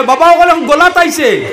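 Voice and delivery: put-on old woman screaming that it reached her neck; shrieking cry. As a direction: shriek it as the water climbs. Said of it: "ইগিয়া আরো চিল্লাই আর কয়".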